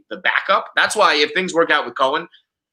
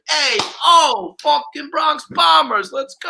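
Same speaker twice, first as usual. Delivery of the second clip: bro Yankee fan cheer; 11 semitones higher, slower than usual. Pretend. Imagining himself as a Yankee fan, hyped bro cheer. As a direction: belt it like a chest-hair-out Bronx bro.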